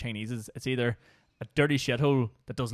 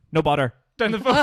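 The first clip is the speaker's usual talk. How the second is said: put-on Chinese accent; 4 semitones higher, 8 dB louder than usual. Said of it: "my impression of Chinese people".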